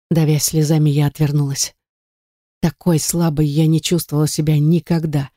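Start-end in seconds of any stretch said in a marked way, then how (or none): none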